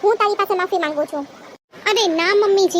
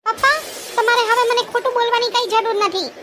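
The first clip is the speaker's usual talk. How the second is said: put-on young daughter voice; 3 semitones higher than usual. Daughter confronting father.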